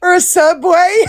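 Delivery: blurted through a laugh; laughing out the line; laughing shout. Real, not acted. Friends laughing hard together.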